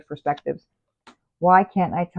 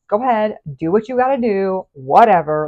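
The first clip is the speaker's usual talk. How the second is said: sarcastic; 2 semitones higher, 6 dB louder than usual. Acted. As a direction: toss it off with mock indifference. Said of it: "like, very kind of sarcastic".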